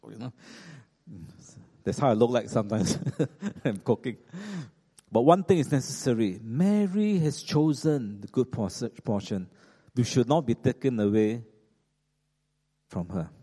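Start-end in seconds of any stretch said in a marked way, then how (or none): 5.1-13.3 tender, loving voice. Acted. The Lord answering agitated Martha, tender and loving. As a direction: say it lovingly, with unhurried pauses. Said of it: "A tender and loving voice".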